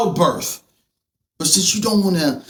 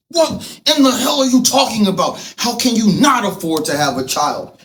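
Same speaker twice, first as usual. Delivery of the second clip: exasperated. Real, not acted. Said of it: "I'm getting angry".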